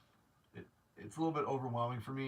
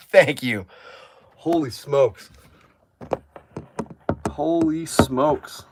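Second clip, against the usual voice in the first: loud, stunned holy smokes, the last one drawn out slow; real disbelief bursting out, much louder; overjoyed exclaiming; 13 dB louder, much slower than usual. Real, not acted. Exclaiming loudly over a viewer's kind offer.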